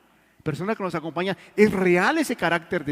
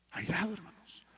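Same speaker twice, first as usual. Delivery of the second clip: airado dropped to a much softer grave tone; hushed solemn echo; 11 dB quieter than usual. Real, not acted. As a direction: repeat the threat softly and gravely. Solemn warning then echo. (eco grave y muy suave)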